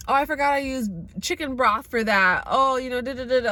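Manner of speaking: breezy airy excuse, lightly mocked; mock careless friends. Mocking friends who forgot the cheese. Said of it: "where people ask me".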